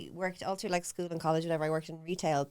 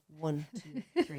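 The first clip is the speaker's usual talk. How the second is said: counting demo; 4 semitones lower, 3 dB quieter, much slower than usual. Shown as a demonstration. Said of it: "You go".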